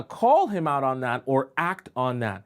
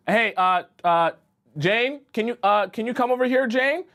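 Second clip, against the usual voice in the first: calling for help; 6 semitones higher than usual. Pretend. Stuck in quicksand, calling friend Jane over, alarmed. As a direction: call out to Jane for help, rising panic.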